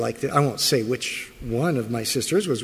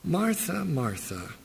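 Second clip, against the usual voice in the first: soft, falling Martha Martha, dropping away; tender correction, letting the name fade; gentle call from Jesus; gentle rebuke; 2 semitones higher, 5 dB quieter than usual. Acted.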